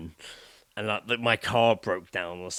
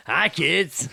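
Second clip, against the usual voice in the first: creepy greeting; 6 semitones higher, 6 dB louder than usual. Pretend. Creepy man greeting kids.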